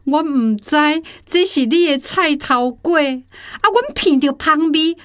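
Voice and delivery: apologetic. Acted. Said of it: "道歉".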